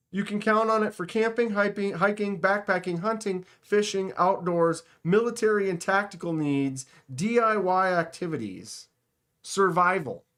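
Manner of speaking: lightly voiced game announcer reading a list; Mortal Kombat announcer. Real, not acted. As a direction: slip slightly into a fighting-game announcer voice. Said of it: "read that in the Mortal Kombat announcer voice".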